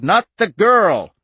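high, drawn-out loud shout. A narrator's reading. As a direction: shout it slowly, stretching the last word. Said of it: "Al shouted".

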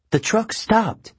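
nervous satyr whisper-worry; Grover's voice. A narrator's reading.

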